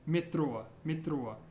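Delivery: "mitro" with the r tapped like a d. Shown as a demonstration. Teacher helping those who can't roll an R, d-like tap. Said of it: "try saying it like a D".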